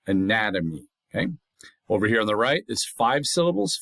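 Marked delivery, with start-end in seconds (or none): 0.1-0.9 anatomy with the second syllable stressed; stress on NAT. Shown as a demonstration. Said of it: "so the nat is stressed".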